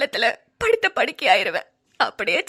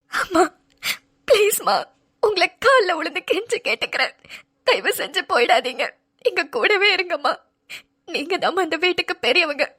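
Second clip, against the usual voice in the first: tearful begging. Acted. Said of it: "அழுவாத கண்ணு".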